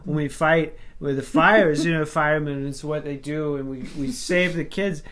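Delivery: a hint of drunk, muddled rambling; Tommy. Imitating the director at the microphone, muddled and stumbling. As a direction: lightly imitate someone struggling to articulate. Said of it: "having a hard time articulating his words".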